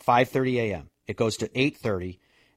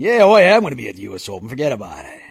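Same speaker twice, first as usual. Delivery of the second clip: mock Manchester accent; 6 dB louder, much faster than usual. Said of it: "has that accent".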